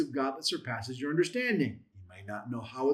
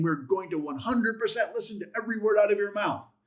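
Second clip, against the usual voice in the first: higher, insistent promise on "one hundred percent"; "one hundred percent" said as an earnest, raised-pitch vow; emphatic pledge; 5 semitones higher than usual. Acted. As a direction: stress "every word" as a total commitment. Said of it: "it's really drawing it out".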